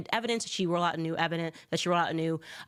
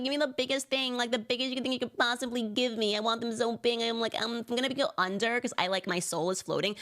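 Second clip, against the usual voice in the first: a lightly higher ditzy mock voice; mocking airhead; 4 semitones higher, faster than usual. Mocking a podcast guest, lightly ditzy voice. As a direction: parody the shallow guest, a bit high.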